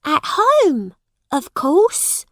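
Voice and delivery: put-on high, loud girls' voices; Canty sisters replying. A narrator's reading. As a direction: answer as if it were obvious, pitched high. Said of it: "replied Nan and Bet".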